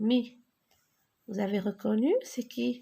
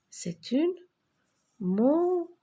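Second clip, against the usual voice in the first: excited reveal; 6 semitones higher than usual. Shown as a demonstration. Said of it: "teacher reveals the word".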